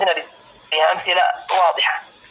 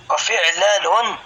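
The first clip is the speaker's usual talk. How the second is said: slow drawn out; much slower than usual. Shown as a demonstration.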